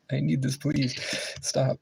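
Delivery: high begging voice; pleading. Real, not acted. Gamer begging the game, high and pleading.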